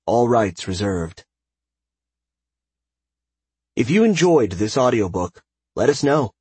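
lively, announcer-style closing credits; upbeat formal sign-off read; audiobook credits announcer. Real, not acted. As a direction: announce the credits with lifted energy.

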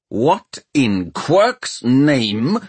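very slow, aghast exclamation, pitch swooping up; stunned, stretched-out question; shocked gasp. A narrator's reading. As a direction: gasp it out word by word in disbelief. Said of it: "the engineer gasped".

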